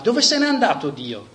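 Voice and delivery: mild shout. Acted. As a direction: call out over the crowd. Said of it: "gridò".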